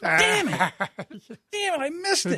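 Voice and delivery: high, laughing fake dismay; mock disappointment. Host mimics Jerry missing the fight, laughing. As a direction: groan like he just missed the party.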